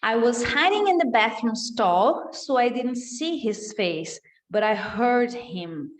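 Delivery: slow, clear reading of the line; slow model reading. Shown as a demonstration. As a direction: read it slowly so students can follow. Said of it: "Vamos colocar aqui pra você ouvir". (leitura lenta e clara)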